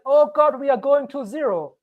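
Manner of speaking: high, panicky mock wail. Crypto YouTuber mimics panicking holders, mock fear. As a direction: play a scared seller mid-crash. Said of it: "when it feels like".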